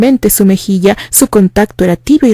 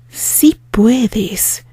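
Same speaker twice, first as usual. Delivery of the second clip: touch of kindness; 4 dB quieter than usual. Acted. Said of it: "hubo un cambio en su voz ... de amabilidad".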